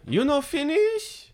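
slow, high mock Asian accent; drawn-out high-pitched put-on accent; comedian's accent bit. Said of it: "it's kinda like Louis' joke".

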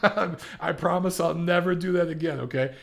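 amused, laughing promise, pitched a little up; laughing apology. Real, not acted. Host apologising to listeners for his bad accent, laughing.

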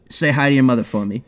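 quick, lightly put-on Boston accent; bad Boston accent. Shown as a demonstration. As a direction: drop the R's in a quick Boston try. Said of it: "That was gonna be the next iteration".

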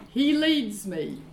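slow, deliberate line for others to repeat; leading a recitation. Real, not acted. Pastor has congregation say it aloud, leading a recitation. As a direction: lead the room in a short declaration. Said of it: "Let's say this out loud".

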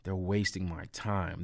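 slow, mild imitation of an irritated cop; lightly voiced fed-up officer; annoyed tone. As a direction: drag it out like you're put out. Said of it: "That was his tone".

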